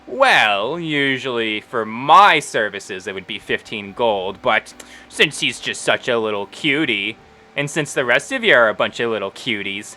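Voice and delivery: lightly voiced halfling proprietor; sweet-talking Wendy. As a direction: haggle sweetly, as if doing cute customers a favour.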